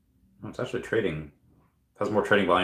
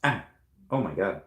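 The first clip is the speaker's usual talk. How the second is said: real sudden pain; 3 dB quieter than usual. Real, not acted. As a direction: caught by a sharp twinge. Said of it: "I just had a really sharp pain".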